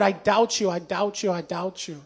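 repeated doubt dropping to almost nothing; fading repeated confession. Retold or imitated. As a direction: let it fade away as you repeat it.

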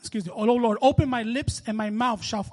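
declamatory, penitent Bible reading; preacher's measured, pleading recitation; psalm reading. Acted. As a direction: read the psalm out as an earnest prayer.

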